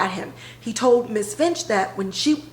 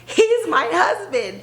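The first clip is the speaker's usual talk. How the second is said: slow reveal; 8 semitones higher, slower than usual. Retold or imitated. Wife revealing her marriage.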